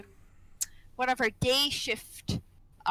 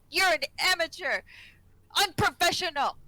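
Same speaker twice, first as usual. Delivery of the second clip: higher-pitched mock scolding in an Asian accent; imitated Asian accent; 5 semitones higher, 3 dB louder than usual. Patient calls nurse an amateur, imitated Asian accent. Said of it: "when he says it in that accent".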